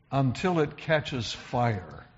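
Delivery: slow quoted phrase. Shown as a demonstration. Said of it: "Isn't that an interesting phrase".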